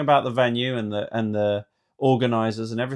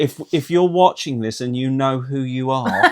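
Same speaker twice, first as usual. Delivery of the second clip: slow, laughing copy of her appeal; mock appeal; slower than usual. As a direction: repeat her plea with a chuckle. Repeats her appeal while laughing.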